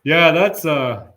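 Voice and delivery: lightly voiced carefree Kiwi, laughing; a hint of a shrugging New Zealander; broad Kiwi accent. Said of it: "Or like the U S election".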